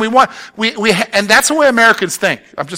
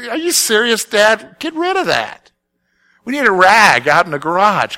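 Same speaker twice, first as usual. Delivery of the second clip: put-on teen kid scoffing; 2 semitones higher than usual. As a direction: play the kid rolling his eyes at Dad. Kids voiced mocking dad's shirts.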